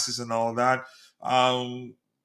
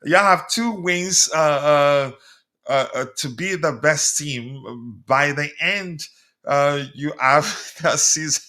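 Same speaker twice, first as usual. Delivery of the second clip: slow, louder, stumbling over the words; slow laboured reading; 5 dB louder, slower than usual. Real, not acted. Host struggling to read a viewer's comment aloud, laboured. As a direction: read it haltingly, decoding as you go. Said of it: "I'm finding it difficult to read this".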